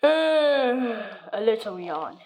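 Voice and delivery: slow, drawn-out yawning sigh; sleepy yawn. Retold or imitated. Sleepy girl yawning before bed, slow yawning sigh. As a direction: let out a small tired yawn. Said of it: "And then I yawned".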